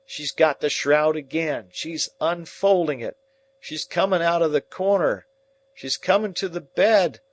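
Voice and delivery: very high, loud panicked screams; screaming in terror. Acted. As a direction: scream as the ghost closes in. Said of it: "with a scream and screams out".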